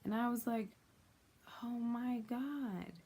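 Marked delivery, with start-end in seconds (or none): 1.6-2.9 slow, higher-pitched shocked realization; stunned, drawing out each word; retold shock, slowly dawning; taken aback. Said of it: "taken aback and so shocked".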